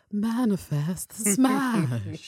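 slow, drawn-out ghost voice; haunt it out slowly; ghostly whisper. Shown as a demonstration. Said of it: "in a ghostly whisper".

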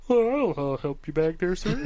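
put-on eager kid helper voice; young kid. Kid bagger to a customer, in young kid voice. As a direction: imitate a youngster offering help. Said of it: "some young kid comes back".

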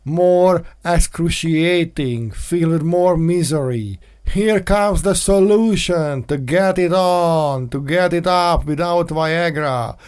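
slow, drawn-out late-night ad read; mock infomercial intro. Host opening the radio show with a mock ad pitch, slow and dramatic. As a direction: sell it like a cheesy TV pitchman, taking your time.

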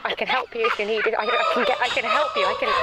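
high, eerie laughing voice; possessed old lady. Acted. Girlfriend taken over by the cursed old lady, high eerie voice. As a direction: let the old lady take over her voice.

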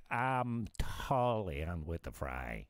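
slow mock Valley Girl fry. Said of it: "the little Valley Girl thing".

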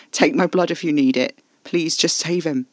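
loud, high, pleading and frantic; desperate begging. Acted. Alfie to Caspar, offering his blood, loud frantic begging. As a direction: throw the words at him, begging him to take your blood.

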